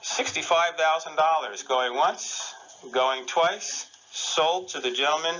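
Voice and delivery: slow, drawn-out auction call; auctioneer. Pretend. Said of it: "I'm gonna be the auctioneer".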